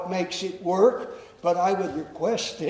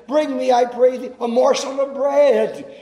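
higher, louder call from the prophet; prophet's raised, pleading request; Elijah calling out; 3 semitones higher, 6 dB louder than usual. Acted. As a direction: call to the widow across the gate. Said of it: "he called her and said".

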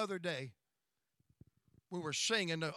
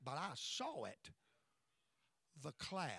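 softer, lower, awed voice; hushed awe; 4 semitones lower, 11 dB quieter than usual. Retold or imitated. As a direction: let the wonder drop to a hush. Wife recalls seeing the glory cloud.

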